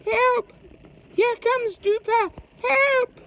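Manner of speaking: high loud cry for help; shout. Acted. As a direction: yell as if the monster's coming. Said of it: "shouted Zoid".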